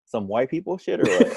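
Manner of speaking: teasing line through a laugh; laughing tease. Retold or imitated. Coworker ribbing him with a laugh. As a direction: chuckle it out as a jab.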